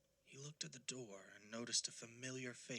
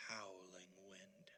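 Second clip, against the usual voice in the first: whispered; 2 semitones lower, 8 dB quieter, slower than usual. A narrator's reading. Narrator evokes the wind.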